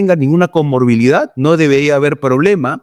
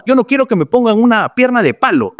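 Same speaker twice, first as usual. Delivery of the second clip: imitated patient's half-joking protest, pitched higher; 6 semitones higher, faster than usual. Patient telling the doctor no wooden leg, in a joking tone. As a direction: mimic a patient kidding, voice lifted. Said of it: "Inclusive algunos en tono de broma".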